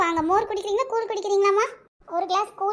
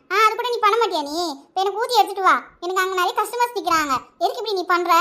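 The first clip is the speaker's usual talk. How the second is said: angry scolding. Acted. Aunt scolding girl harshly.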